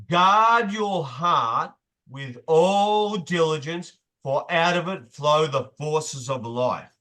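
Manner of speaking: slow, weighty reading of scripture; solemn proverb read slowly; scripture recitation. Acted. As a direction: intone it like a verse from the pulpit.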